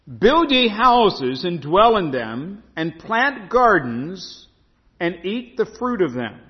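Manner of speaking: slow, steady reading of the verse. Shown as a demonstration. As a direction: read the line through once. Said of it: "Look at verse five".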